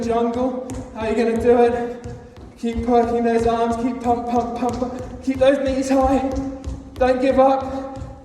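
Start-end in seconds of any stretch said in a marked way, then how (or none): 2.9-8.3 excited coaching. Real, not acted. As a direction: fire them up for the final seconds. Coach pushing class through last seconds.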